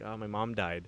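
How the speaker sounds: imitating a man faking grief; mock sad homeless guy. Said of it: "acting like a really sad guy".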